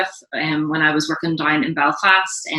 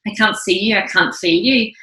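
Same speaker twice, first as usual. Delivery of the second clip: pained plea; 4 semitones higher than usual. Retold or imitated. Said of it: "And I said".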